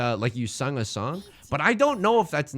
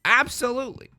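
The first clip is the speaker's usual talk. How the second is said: high-pitched, exclaimed endorsement; emphatic agreement; 11 semitones higher, 3 dB louder than usual. Pretend. Streamer backing a viewer's right to a name, high emphatic agreement.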